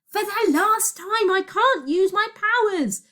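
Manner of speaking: slow, high, loud exasperation; exasperated shout. A narrator's reading. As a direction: shout each word slowly, out of patience. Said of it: "shouted Virgo".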